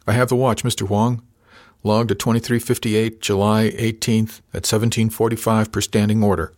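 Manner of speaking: mildly projected watch announcement; measured official declaration; formal announcement. A narrator's reading. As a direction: announce it for the log. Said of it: "He announced it loudly".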